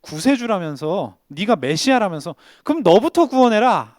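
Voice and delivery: a taunt that rises to a challenge; mocking crowd. Crowd jeering at Jesus on the cross, mocking. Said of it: "사람들이 전부 예수님이 조롱했어요".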